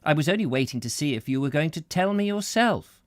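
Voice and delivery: lightly voiced eager old woman; a hint of a fluttery old lady; lady character voice.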